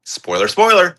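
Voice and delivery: high-pitched warning call; spoiler alert. Real, not acted. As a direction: sing out a quick warning. Calling out a warning to viewers.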